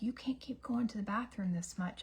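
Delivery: hushed inner scolding; whispered self-scolding. Retold or imitated. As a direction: whisper it to yourself. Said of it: "I'm like".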